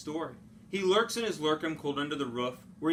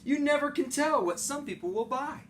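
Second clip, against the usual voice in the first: mocking Onceler; 10 semitones higher than usual. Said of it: "I laughed at the Lorax".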